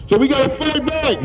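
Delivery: rising, impassioned call to fight back; rousing rally cry. Real, not acted. Speaker urging protest crowd to stand up and fight back, fired up. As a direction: whip the crowd up, slow and high.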